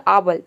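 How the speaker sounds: आबल with a long open "aa" instead of "ay"; wrong "aa" vowel. Shown as a demonstration. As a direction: stretch the first vowel of आबल to "aa". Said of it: "ए को आ pronounce कर दिया".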